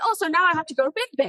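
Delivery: acted, high, sure, certain, self-assured, settled delivery. Retelling how a character announced a trip: imitating an assured delivery. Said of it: "that's how he said it".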